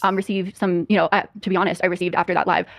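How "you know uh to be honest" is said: usual speaking voice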